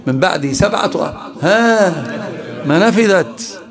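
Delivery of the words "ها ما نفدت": laughing exclamation. Real, not acted. Laughing emphasis mid-lesson.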